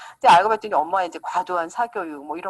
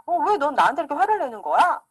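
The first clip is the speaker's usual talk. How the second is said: mock angry accusation; 6 semitones higher, 3 dB louder than usual. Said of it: "친구한테 이제 막 화를 내요".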